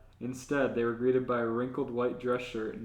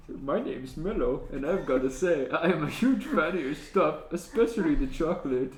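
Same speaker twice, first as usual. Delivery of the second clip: brighter, louder fan greeting; more enthusiastic; 4 semitones higher, 5 dB louder than usual. Acted. Reading Mello's line to L, more enthusiastic. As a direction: gush to L like an eager fan. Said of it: "Mello can be a little bit more enthusiastic".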